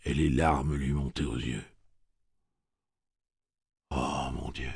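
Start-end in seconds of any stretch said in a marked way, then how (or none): 3.9-4.7 sigh. Acted. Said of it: "soupira Jake".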